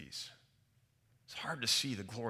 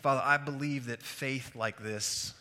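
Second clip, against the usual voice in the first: spoken prayer; 4 dB louder than usual. Real, not acted. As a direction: address God earnestly, unhurried. Leads the congregation in prayer.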